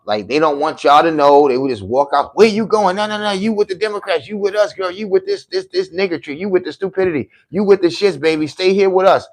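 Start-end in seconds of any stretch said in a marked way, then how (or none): 2.4-9.3 high, mincing mock voice of a Democrat; high sneering caricature pleading with a defector; mock girly voice. Mocking Democrats, effeminate voice.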